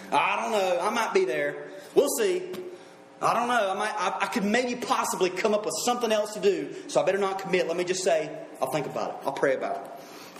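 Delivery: acted reluctance to commit; noncommittal excuses. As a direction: hedge and stall, then mumble the promise away. Voices people dodging any commitment.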